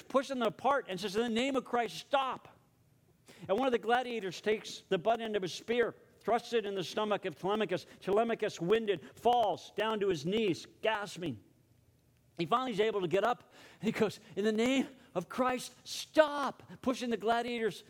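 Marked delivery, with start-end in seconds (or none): 1.2-2.5 higher-pitched urgent command; contained mock shout with raised pitch; retold shout. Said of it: "and shouting". 14.4-16.6 high-pitched cry building to STOP; acted shout, pitch climbing on the last word; retold shout. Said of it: "and shouting".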